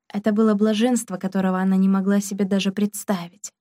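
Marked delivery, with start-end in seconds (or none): none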